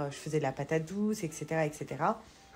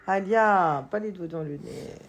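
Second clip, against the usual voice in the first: a sharp, louder call of the name; firm warning call; 6 dB louder than usual. Real, not acted. Mother warning baby daughter off nose-picking, firm and louder. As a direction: stop her with her name. Scolding baby's finger in nose.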